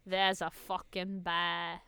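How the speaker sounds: put-on slow, low, soft Aussie accent; mock Australian accent. Echoing the bear warning, slow mock Australian accent. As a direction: echo it slowly in put-on Australian.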